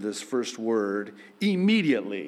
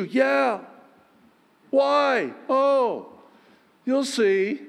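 teasing; 12 semitones higher, 4 dB louder, slower than usual. Retold or imitated. Jesus answering teasingly.

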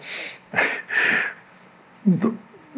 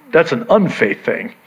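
ordinary talk

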